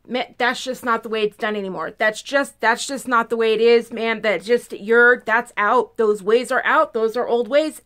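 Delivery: mock putdown, talking down to the listener; demeaning tone. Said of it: "they say it in such a demeaning tone".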